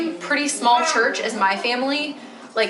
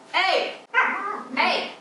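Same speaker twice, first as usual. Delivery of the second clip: sharp, higher hey to break up the dogs; calling to the dogs; 10 semitones higher than usual. Real, not acted. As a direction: call the fighting dogs off, pitched up. Calling off her fighting dogs.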